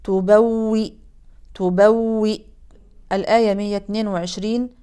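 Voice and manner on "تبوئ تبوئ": تبوئ ending on a stopped hamza; pausal form demo. Shown as a demonstration. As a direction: stop sharply on the hamza of تبوئ. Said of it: "نقف على همزة ساكنة". (وقف على همزة ساكنة)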